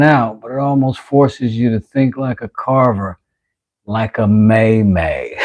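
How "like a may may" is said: laughing. Real, not acted. Laughs at own word slip.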